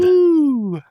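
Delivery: sudden high whoop of delight; a quick delighted hoot at the revolving door joke; excited woo. Real, not acted. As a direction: cheer it out, real and bright. Cohost cheers mid-discussion.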